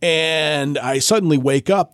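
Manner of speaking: usual speaking voice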